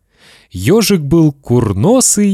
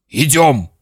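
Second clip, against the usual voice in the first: mild, urgent command; father's shout; 3 semitones higher than usual. Acted. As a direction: order the boy along. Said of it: "снова закричал папа".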